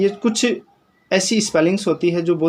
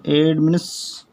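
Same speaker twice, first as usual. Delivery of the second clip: एडमिनिस्ट्रेशन stretched out very slowly; very slow एडमिनिस्ट्रेशन for learners; very slow model pronunciation; much slower than usual. Shown as a demonstration. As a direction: draw out every syllable of एडमिनिस्ट्रेशन. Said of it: "शुद्ध बोलते हैं".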